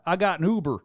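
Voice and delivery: weak imitation of a Mississippi accent; attempted Mississippi accent. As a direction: have a go at a Mississippi accent and miss. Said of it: "I can't do a Mississippi accent".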